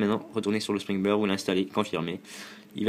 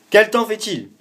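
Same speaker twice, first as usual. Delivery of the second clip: high, loud question to the phone; loud repeat to Siri; 12 semitones higher, 11 dB louder than usual. Real, not acted. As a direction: repeat it loudly for the assistant. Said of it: "je vais lui redemander".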